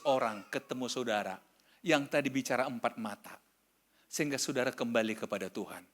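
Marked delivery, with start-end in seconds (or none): none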